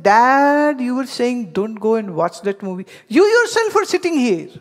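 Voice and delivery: loud, high outraged disbelief; indignant accusation. Retold or imitated. Son catches his father in the same movie, loud incredulous accusation.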